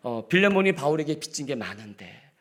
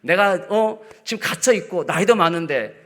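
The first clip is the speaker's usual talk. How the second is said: higher, louder wheedling pressure; guilt-tripping old apostle; 7 semitones higher, 7 dB louder than usual. Retold or imitated. Paul pressing Philemon to grant his favour, mock wheedling. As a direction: lean on him till he can't refuse. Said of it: "여러분, 이렇게 나오고 있는 거예요".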